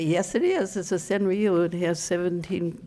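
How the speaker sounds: playfully insisting; insistent retort. Acted. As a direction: push back at an imagined doubter. Acted retort to a challenger.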